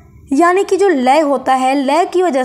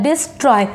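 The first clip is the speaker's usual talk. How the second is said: "डिस्ट्रॉय" in two beats, डिस and ट्रॉय; two-part word. Shown as a demonstration. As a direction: split "डिस्ट्रॉय" after "डिस", falling on "ट्रॉय". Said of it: "यहाँ पर दो मोड़ आ रहा है".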